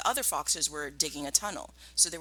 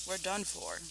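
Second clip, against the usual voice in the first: much softer, defeated murmur; softly; 3 semitones higher, 8 dB quieter than usual. Acted. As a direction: let the words sink, hopeless. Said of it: "he said softly".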